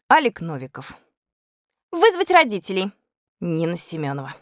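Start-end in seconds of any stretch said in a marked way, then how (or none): 1.9-2.9 high-pitched classroom outcry; outcry from the class. A narrator's reading. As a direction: call it out high from the crowd. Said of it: "Но отдельные выкрики".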